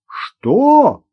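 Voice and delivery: high, loud scornful what; incredulous outburst. A narrator's reading. Gosha scoffs at Irina being a screenwriter, high and loud.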